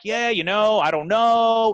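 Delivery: high, loud, careless brush-off; dismissive coach. Retold or imitated. Coach shrugging off a walk-on asking about a scholarship, high and loud.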